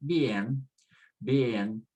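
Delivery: "bien" as byEN, weight on the e; "bien" with a stressed E; strong-vowel stress. Shown as a demonstration. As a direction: slip over the i, lean on the e in "bien". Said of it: "just stress the strong vowel".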